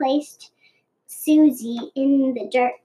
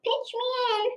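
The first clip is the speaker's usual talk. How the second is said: snake voice; 10 semitones higher, 8 dB quieter, faster than usual. A narrator's reading. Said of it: "proposed Susie".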